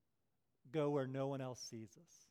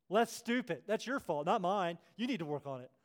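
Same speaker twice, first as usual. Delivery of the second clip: louder, snappy brush-off; mock a rude person blaming you; dismissive retort; 3 semitones higher, 6 dB louder than usual. Preacher imitating someone snapping back, louder.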